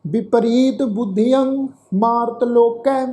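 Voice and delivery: slow, measured Gurbani recitation; scripture recitation. Shown as a demonstration. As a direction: draw out each word of the verse. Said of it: "ਸਮੁੱਚਾ ਪਾਠ ਉਚਾਰਨ ਕਰਦੇ ਹਾਂ".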